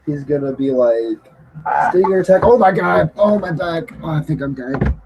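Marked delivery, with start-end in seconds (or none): 1.9-4.9 put-on higher, pained old man groans; hammed-up aching old man; old wrestler. Imitating old Sting hurting.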